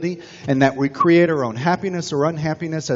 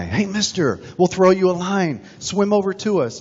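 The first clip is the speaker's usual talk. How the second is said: higher, calling out from a passing boat; boatman calling; 5 semitones higher than usual. Retold or imitated. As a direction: hail him across the water.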